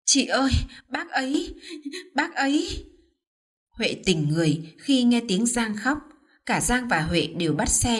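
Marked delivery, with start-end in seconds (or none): 0.1-2.9 a hint of fake sobbing, pitched higher; breaking up mid-phrase, mock distraught; lightly voiced crocodile tears; tearful. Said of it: "mếu máo, khóc lóc thảm thiết".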